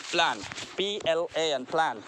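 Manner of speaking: प्लान with a short flat a; short a in plan. Shown as a demonstration. Teacher modelling the short a in प्लान. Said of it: "So speak after me".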